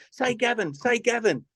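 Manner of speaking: high, urgent retold plea; will the TV host to say it; mock pleading. Retold urging at the TV.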